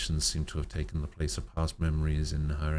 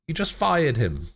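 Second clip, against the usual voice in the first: much higher, louder laughing quip; amused aside; 10 semitones higher, 7 dB louder than usual. Real, not acted. Reader breaks from the story to joke about the doctor, laughing. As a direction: tease through a laugh.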